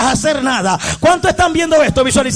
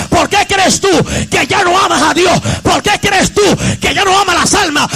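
full-force preaching; 3 semitones higher than usual. Real, not acted. Preacher rebuking a worldly church, full-force preaching. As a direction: cry it out phrase by phrase.

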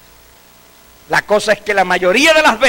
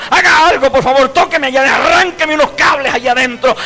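desperate plea; 5 semitones higher than usual. Pretend. Desperate people begging erase memory.

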